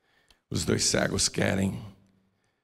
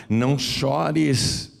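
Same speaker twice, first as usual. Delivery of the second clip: slow tender comfort; 3 semitones higher, much slower than usual. Acted. Jesus speaks to the widow.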